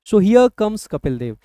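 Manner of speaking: slow announcer intro, here drawn out; commentator style. Shown as a demonstration. Teacher imitating a cricket commentator introducing Kapil Dev, slow. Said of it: "commentator होते हैं वो basically इसी तरीके से introduce करते हैं".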